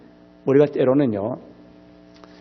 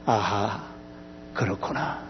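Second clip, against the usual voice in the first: hushed realization; 6 semitones lower, 10 dB quieter, slower than usual. Acted. Job's quiet realization.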